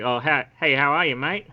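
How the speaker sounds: Australian greeting, for copying; easygoing Australian demonstration; Australian accent. Shown as a demonstration. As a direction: model an Aussie "mate" greeting. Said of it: "just try to say something like".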